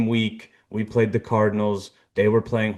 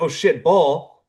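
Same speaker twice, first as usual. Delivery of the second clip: higher, louder, drawn-out mock alarm; freaking out; 6 semitones higher, 5 dB louder, slower than usual. Podcaster retelling the running back's reaction, freaking out. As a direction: imitate a panicked player spotting the ball. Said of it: "Tank was freaking out".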